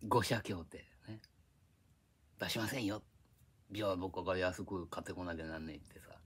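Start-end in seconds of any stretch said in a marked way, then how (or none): 2.4-5.8 hushed, voiceless aside as the studio bosses; whispered quote. Retold or imitated. Telling listeners about the studio pact, in a whisper. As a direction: whisper it like a backroom deal.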